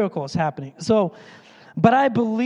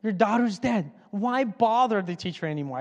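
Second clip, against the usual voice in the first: mocking voice. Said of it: "I'm doing that voice".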